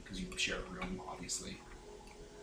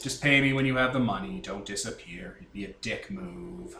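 monotone Fives. Acted. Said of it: "out of my way to make him monotone".

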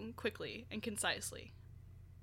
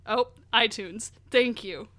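prayer; 5 dB louder, slower than usual. Pretend. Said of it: "Was that a prayer to iTunes?".

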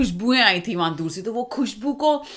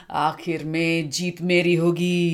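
slow, low gloating villain; 3 semitones lower, slower than usual. Acted. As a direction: savour the victory line slowly. Villain's gloating line in story.

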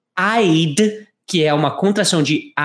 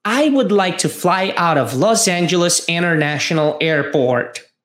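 slightly quicker take of the line; a bit faster. Shown as a demonstration. Teacher repeating the line a bit faster for students. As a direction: pick up the pace a little. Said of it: "Um pouco mais rápido".

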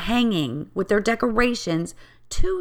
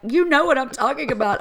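higher, insistent retold plea; imitating exasperation; 5 semitones higher than usual. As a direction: insist as if they should understand. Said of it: "getting, like".

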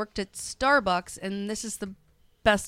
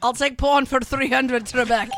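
game show contestant; 3 semitones higher, 7 dB louder than usual. Pretend. Playing Jeopardy contestant.

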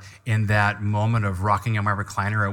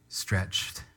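whispered; 4 semitones lower, 9 dB quieter than usual. Real, not acted. Emphatic climax of a point.

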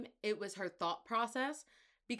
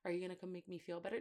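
mock whiny; 6 dB quieter, much faster than usual. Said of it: "being like".

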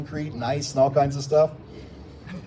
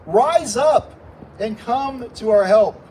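raised, emphatic plea, slowing at the end; desperate appeal; 5 semitones higher, 5 dB louder, slower than usual. Acted. Psalmist appealing to God for help, mildly desperate. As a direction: press the plea, higher and louder. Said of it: "sounding more and more like a desperate appeal".

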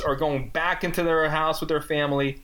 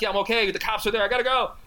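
rising higher, hurried self-imitation; mock frantic reply; 8 semitones higher, faster than usual. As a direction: blurt it out, climbing higher. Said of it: "I'm like".

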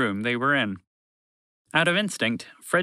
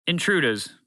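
higher-pitched, pointed "Intruders"; emphatic announcement; 6 semitones higher than usual. A narrator's reading. Broadcast voice stressing the important part, "Intruders" higher and emphatic. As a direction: announce "Intruders" as the one word that matters. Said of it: "to emphasize the important part".

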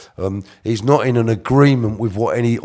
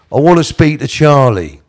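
raised, higher voice, mimicking a demand; acting out Reg; 4 semitones higher, 6 dB louder than usual. Reg demanding a phone call to Charlie, acted out. Voicing Reg's demand to staff.

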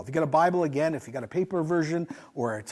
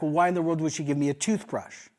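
irritated tone. Retold or imitated. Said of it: "can you hear my tone?".

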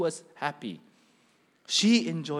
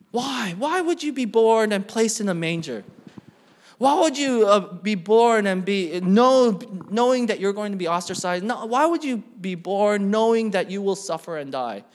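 loud, insistent rhetorical questioning; forceful pulpit questioning; impassioned preaching; 4 semitones higher, 8 dB louder than usual. Real, not acted. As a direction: press the congregation for an answer.

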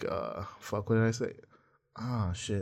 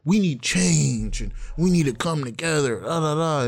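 mock earnest influencer; 3 semitones higher than usual. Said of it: "It's like".

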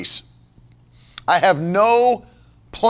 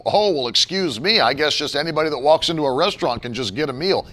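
fast, lowered sarcastic mimicry; mocking objector; 5 semitones lower, faster than usual. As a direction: rattle off a critic's mock indignation.

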